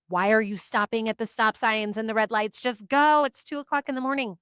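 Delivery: panicked passenger in labor shouting at partner to drive; retold yell. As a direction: urge the partner to just go, voice rising. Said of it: "I'm yelling at my partner".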